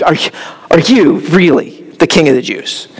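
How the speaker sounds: mild mock scoff at the question; scoffing disbelief. Preacher imitating Pilate mocking Jesus's claim, a hint of scorn. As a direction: lightly sneer "are you really" in disbelief. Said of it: "he kind of scoffed at the idea".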